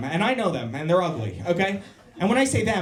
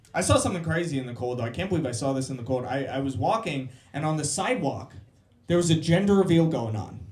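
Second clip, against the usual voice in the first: ordinary delivery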